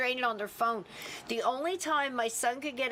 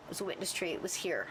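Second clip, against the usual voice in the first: softer, lower, matter-of-fact confirmation; calm knowing reply; 3 semitones lower, 5 dB quieter, faster than usual. Retold or imitated. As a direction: gently cut short an eager explainer. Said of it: "And I said".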